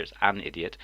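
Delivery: "an" stressed, full vowel, before "idiot". Shown as a demonstration. Insisting on correct grammar, "an" stressed. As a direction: lean on "an" to correct it. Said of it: "be grammatically correct here".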